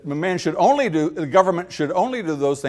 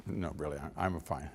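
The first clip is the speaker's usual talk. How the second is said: low, very soft, hesitant decline; polite refusal; 10 semitones lower, 16 dB quieter than usual. Acted. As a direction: turn it down quietly and modestly. Diner politely declines the juice.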